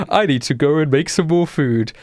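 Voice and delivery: high-pitched, evasive character voice; nervous Gravy voice. Acted. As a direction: make a high-voiced excuse to slip away. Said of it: "he says as he's".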